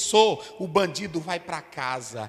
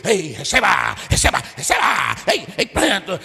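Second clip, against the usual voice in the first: mock noisy worship; 8 dB louder than usual. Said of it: "É uma macacada".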